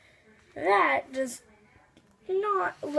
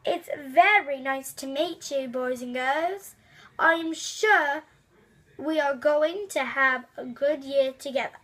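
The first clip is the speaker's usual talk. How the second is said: a lightly put-on strange foreign accent, unhurried; teacher welcoming the class in a mild strange accent. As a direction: greet the class in a strange accent, taking your time. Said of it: "in a strange accent".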